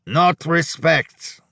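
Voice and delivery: put-on high, drawn-out accented lament; aggrieved Hungarian. A narrator's reading. Hungarian shaking his head sadly at Rudy, aggrieved lament. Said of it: "shaking his head sadly".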